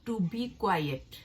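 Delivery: each word of the sentence drawn out slowly; teacher dictating the example sentence. Shown as a demonstration. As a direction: read it out slowly for learners. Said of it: "तीसरा जुमला है".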